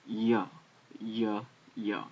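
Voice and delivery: "ya" as short separate syllables with a Y glide; Y sound. Shown as a demonstration. Teacher demonstrating Yod's sound, "ya" said as short separate syllables. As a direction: sound out "ya" three times, spaced. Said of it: "It's a Y sound".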